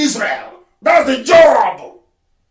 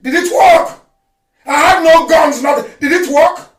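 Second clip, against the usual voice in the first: higher, louder mocking challenge; shouted taunt; 4 semitones higher, 3 dB louder than usual. Real, not acted. Leader taunting those who tried to kill him, shouted taunt. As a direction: throw the question back at them. Taunting enemies after attack.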